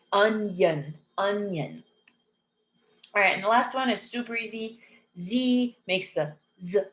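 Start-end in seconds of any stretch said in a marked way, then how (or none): 0.1-1.8 "onion" said carefully as UN-yun. Shown as a demonstration. Teacher showing I said as Y, careful "onion". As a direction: sound a clear Y inside "onion". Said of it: "we pronounce it as a Y".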